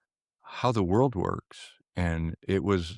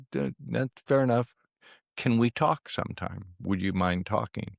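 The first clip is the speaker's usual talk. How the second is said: caller backing off; 4 semitones higher than usual. Retold or imitated. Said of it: "And he goes".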